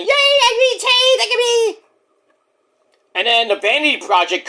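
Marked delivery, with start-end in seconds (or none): 0.0-1.8 mock celebration. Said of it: "They're all celebrating".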